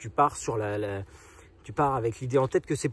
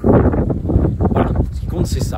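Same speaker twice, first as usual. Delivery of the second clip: raised voice against the wind; shouting over wind; 7 dB louder than usual. Real, not acted. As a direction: call out over a gusty wind. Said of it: "J'espère que vous m'entendez bien avec le vent".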